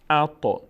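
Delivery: ات with a small echo on the heavy t; crisp echoing stop ending ات; slightly bouncing t. Shown as a demonstration. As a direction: release the t of ات with a little bounce. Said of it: "مقداری تا میلرزه".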